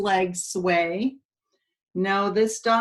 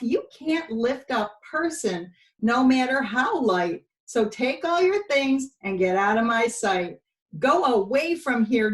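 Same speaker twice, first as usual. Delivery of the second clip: huffy owner. Acted. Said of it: "said with a huff".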